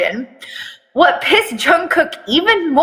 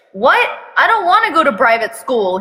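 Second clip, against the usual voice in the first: whining; 2 semitones higher than usual. Acted. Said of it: "he whines".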